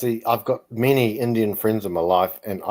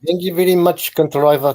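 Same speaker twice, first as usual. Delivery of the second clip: put-on light South African accent, higher, thanking the host; an amateur South African accent, done for fun; 5 semitones higher, 4 dB louder than usual. A guest showing off his South African accent in the chat, lightly done. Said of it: "that's my best South African accent".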